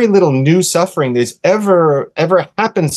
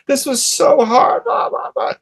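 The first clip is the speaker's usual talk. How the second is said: put-on child's complaint; 11 semitones higher than usual. Son's crying retold.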